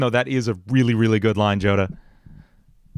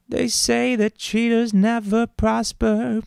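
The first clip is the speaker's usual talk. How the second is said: demon voice; 12 semitones higher, much slower than usual. Acted. Demonic voice line.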